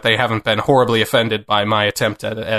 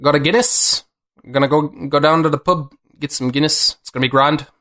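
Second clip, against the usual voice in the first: put-on Irish accent; 2 semitones higher than usual. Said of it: "you want me to try the accent?".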